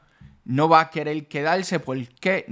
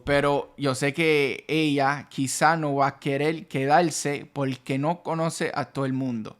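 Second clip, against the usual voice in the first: casual Caribbean Spanish. Shown as a demonstration. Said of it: "you can hear all the ways".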